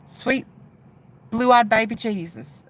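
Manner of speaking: put-on slow, drawn-out Southern accent. Streamer showing viewers how he said it, imitated southern accent. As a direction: imitate his Southern drawl lightly. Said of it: "With a southern accent, too".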